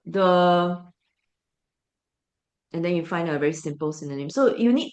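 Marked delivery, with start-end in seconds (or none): 0.0-0.8 drawn out, slow, as a bad example; slow model answer; slow demo. Shown as a demonstration. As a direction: spell it out slowly. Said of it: "you cannot just rephrase it".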